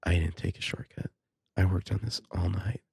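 soft, seductive read; sexy voice. Acted. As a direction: purr the line, flirting. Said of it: "like, sexy Ava voice here".

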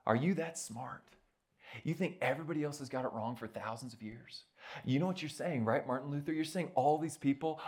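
lightly voiced mocking tempter, not whispered; Satan taunting. Satan taunts Martin Luther, lightly mocking. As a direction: needle him with sneering questions. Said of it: "whisper in his ear and say".

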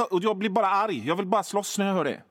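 ordinary talk, nothing marked

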